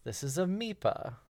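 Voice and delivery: high hologram scientist voice; mad scientist. Acted. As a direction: announce yourself like a mad genius. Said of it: "you will hear the voice of a mad scientist".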